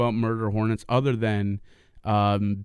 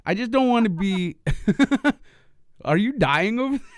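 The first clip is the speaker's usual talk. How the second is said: much higher, talking through laughter; real helpless laughter; 11 semitones higher, 3 dB louder, faster than usual. Real, not acted. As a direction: struggle to get the words out while cracking up. Cracking up, cannot finish sentence.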